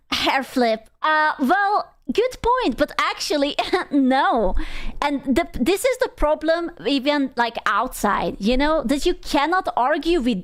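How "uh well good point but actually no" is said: mock dismissive. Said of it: "And she was like".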